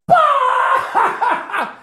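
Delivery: a sudden high shrieking laugh from the crowd; sister's shriek laugh. Retold or imitated. Sister in the audience shrieks with laughter at the name. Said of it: "And all of a sudden you hear".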